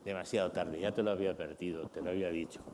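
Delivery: a dad who stays calm and does not give in; quiet, settled verdict; calm firm father. Retold or imitated. Father answers the crying son.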